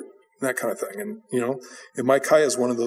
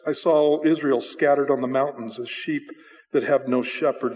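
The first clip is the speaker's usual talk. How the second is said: understated gravity, lowering in pitch; intense and grave; 2 semitones lower than usual. Acted. Prophet giving the king his vision, grave. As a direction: let it turn grave and pointed. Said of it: "Micaiah's voice got, got intense and grave".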